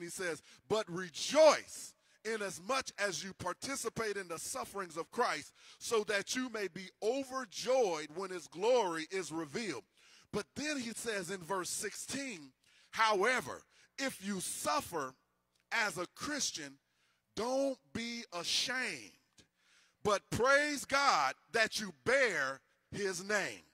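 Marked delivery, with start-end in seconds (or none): 0.7-9.8 scripture reading. Acted. Reads scripture. 12.9-23.6 slow, deliberate reading of the verse; scripture reading. Acted. Preacher reads First Peter to the congregation, slow and measured.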